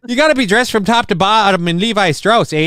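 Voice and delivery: high, hammed-up northern accent with "eh"; Minnesotan-Canadian accent. Host describing denim wedding wear, mock Canadian-Minnesotan accent. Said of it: "wearing a Canadian tuxedo".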